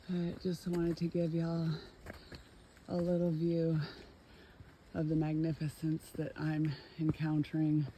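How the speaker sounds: out of breath from the climb; huff. Real, not acted. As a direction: talk between heavy breaths. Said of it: "Sorry for the huffing and puffing".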